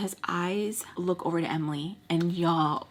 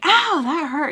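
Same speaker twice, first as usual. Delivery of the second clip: high, loud "ow"; acted pained yelp; 8 semitones higher, 8 dB louder than usual. Girlfriend whose thigh got squeezed, high loud yelp. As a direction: yelp it in mock pain. Reenacts thigh being gripped.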